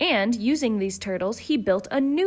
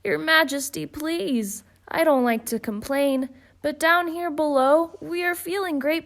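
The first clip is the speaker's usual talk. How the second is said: higher, pained pleading turtle; groaning plea; 6 semitones higher than usual. Acted. Mac pleads from the bottom of the stack, higher. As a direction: beg from under the crushing stack. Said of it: "groaned Mac".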